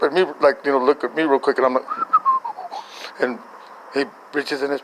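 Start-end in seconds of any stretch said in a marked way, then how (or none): 1.9-2.8 very high-pitched mock giggle; high tittering laugh, put on for the story; imitated snicker. Imitates own suppressed snicker.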